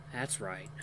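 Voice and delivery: soft, low reassurance; gentle encouragement. A narrator's reading. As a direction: softly coax someone to calm down. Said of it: "he encourages me".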